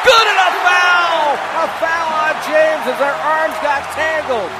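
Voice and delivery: ringing play-by-play peak; excited basket-and-foul call. Real, not acted. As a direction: belt out the whistle call, stretching it.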